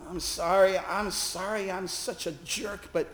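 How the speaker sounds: a hint of breaking, pleading sorrow; retold crying. Distraught man apologising to the chaplains, lightly tearful. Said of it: "he cried".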